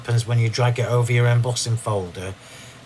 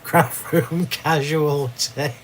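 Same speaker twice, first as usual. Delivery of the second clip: drawn out slowly, chuckling through it; rueful laughing echo; amused slow repeat; 4 semitones higher, much slower than usual. Real, not acted. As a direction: savour the phrase with a laugh.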